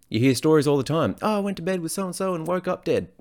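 high put-on comedy voice quoting a film; goofy high-pitched movie impression with a laugh; Scary Movie quote. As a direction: squeak it out like a silly movie character, cracking up at the end. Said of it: "One of my favorite scenes from Scary Movie".

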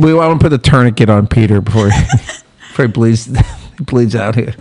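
low, chuckling tease; amused, breaking into laughs mid-sentence; laughing. Real, not acted. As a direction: talk through suppressed laughter. Teasing the flustered Pete, laughing.

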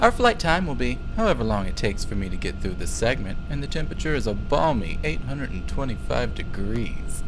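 lightly voiced airline announcement; flight attendant voice. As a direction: read it like a cabin crew greeting. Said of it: "let me get my flight attendant voice on".

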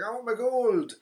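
high-pitched leprechaun whine for gold; demanding leprechaun. Retold or imitated. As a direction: act out a leprechaun making his demand. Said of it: "Leprechaun's like".

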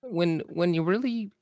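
exasperated professor lamenting the world; Jordan B. Peterson impression. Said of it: "Alex's impeccable per-, impression".

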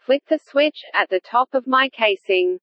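speak and spell voice. Acted. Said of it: "why do you sound like that".

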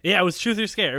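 excited. Real, not acted. Remembering the show name.

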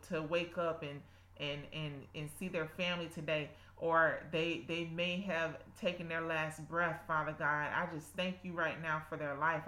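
earnest spoken prayer. Acted. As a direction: pray aloud with devotion. Leads a prayer.

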